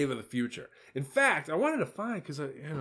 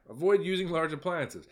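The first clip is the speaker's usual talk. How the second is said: Gavin Newsom voice; 6 semitones higher than usual. Retold or imitated. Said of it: "in my best Gavin Newsom voice".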